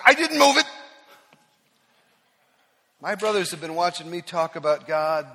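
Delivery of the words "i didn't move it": high, loud defensive snap; snapped back. Retold or imitated. Caught cheating at golf, snapping back loudly. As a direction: bite back in mock indignation. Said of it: "I may have snapped back".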